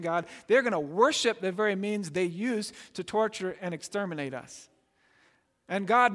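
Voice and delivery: mildly panicked plea to God; acted prophet's panic. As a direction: plead as a prophet with a touch of alarm. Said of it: "hear the panic in the prophet's voice".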